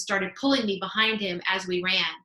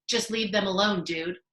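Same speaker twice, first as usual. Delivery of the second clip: calm. Acted. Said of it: "Amos repeated calmly".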